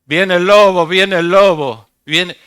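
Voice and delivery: a preacher imitating a boy's shout; mock alarm cry. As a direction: cry out like the shepherd boy. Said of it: "Ese que gritaba".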